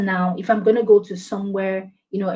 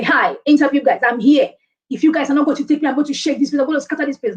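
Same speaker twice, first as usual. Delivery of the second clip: mildly hammed-up interview bravado; overeager candidate; 3 semitones higher, faster than usual. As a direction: burst in on the interviewers, slightly overdoing it. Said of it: "You can't go for an interview and say".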